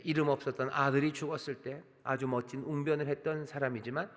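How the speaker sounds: ordinary talk, nothing marked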